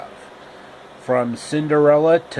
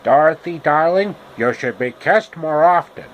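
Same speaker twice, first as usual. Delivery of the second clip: louder, smooth flirting; Rhett Butler line; 3 dB louder than usual. Acted. Rhett flirting with Dorothy, a touch louder and smooth. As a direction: lean in and charm her.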